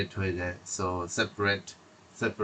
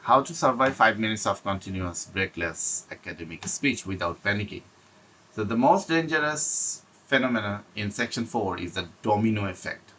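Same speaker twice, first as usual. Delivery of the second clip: slow heading read; much slower than usual. Shown as a demonstration. Teacher reading the section heading to students, slow. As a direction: announce the section heading very slowly. Reads English notes slowly.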